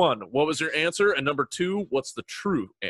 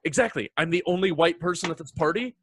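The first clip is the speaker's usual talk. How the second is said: anxious; 5 semitones higher than usual. Retold or imitated. Panicked at party, retold.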